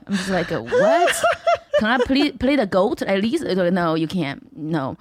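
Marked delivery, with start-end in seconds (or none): 0.5-1.8 very high-pitched incredulous question; exaggerated high-voiced bafflement; mock disbelief. Acts her reaction to casting insult. 1.8-3.4 acted pleading. Acts out begging for a part. 3.7-5.0 acted curt refusal. Acts the refusal of her request.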